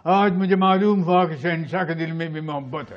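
dramatic film prince, starting strongly; Dilip Kumar. Shown as a demonstration. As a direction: deliver it as a son's impassioned retort. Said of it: "Dilip Kumar".

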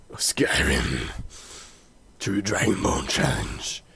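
soft, half-voiced put-on whisper; mysterious whisper. Holds whispery voice through note signature and outro.

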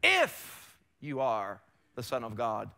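drawn-out, stressed IF, then slow; slow, lightly voiced tempter's challenge; enemy's taunt. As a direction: cast doubt slowly, leaning on the first word. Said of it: "What does the enemy say?".

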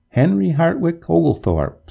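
a drowned ghost calling his full name, gargling. A narrator's reading. Drowned ghost to the master of Harrowby, lightly gargled. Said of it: "in a gargling voice".

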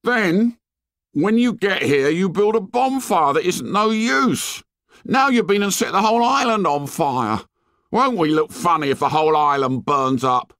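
put-on very high, scolding boy's rant; indignant tirade. A narrator's reading. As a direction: scold them in a high, heated voice. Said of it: "listening to the tirade".

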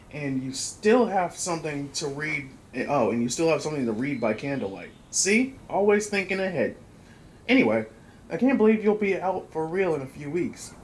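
put-on letter-reading delivery. Player reading a sister's letter to Tyler, reading voice. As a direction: read the letter out with a touch of performance. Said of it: "I got my reading voice".

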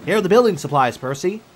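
panting. Acted. Toby delivers supplies to Percy, mildly panting. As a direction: call out as if puffed from the journey. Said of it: "he panted".

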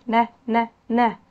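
short isolated "نا" syllables; letter N sound. Shown as a demonstration. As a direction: sound out N as "نا", separately. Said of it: "لأن بنطقه إيه؟". (نطق صوت الحرف "نا" مقطعًا قصيرًا منفصلًا)

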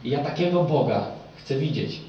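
loud, driven sermon delivery, pressing each phrase; fervent preaching. Acted. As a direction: preach it to the whole hall with full force. Preacher addresses the congregation.

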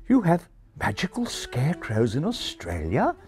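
affronted refined English pigeon; a touch of indignation. Acted. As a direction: ask with mild English indignation. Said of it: "a touch of indignation".

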